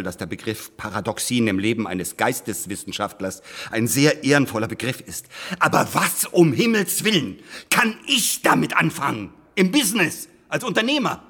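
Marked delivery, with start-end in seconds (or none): 5.6-11.2 exasperated, voice going up; rising exasperation. Acted. Lawyer to the historians, rising exasperation. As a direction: pitch climbing higher with each question.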